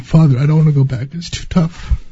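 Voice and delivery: pleading with Father, fading out at "too tough"; tearful plea to Father. Retold or imitated. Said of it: "I'm actually crying".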